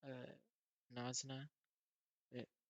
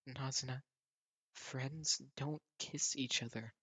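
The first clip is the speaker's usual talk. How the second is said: flustered protest; 6 dB louder than usual. Acted. Flustered after kiss.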